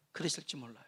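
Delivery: ordinary delivery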